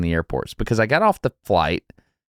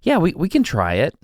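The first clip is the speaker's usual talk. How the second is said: mock noncommittal hedging, a little higher; cagey answer; 5 semitones higher than usual. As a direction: hedge evasively, imitating a reluctant passenger. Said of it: "these really cagey answers".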